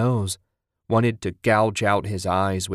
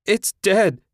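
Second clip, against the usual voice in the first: high, loud anguished scream; 12 semitones higher, 6 dB louder than usual. A narrator's reading. Wife screaming that the baby is dead, loud and high. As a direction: scream it out in horror. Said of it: "she screamed".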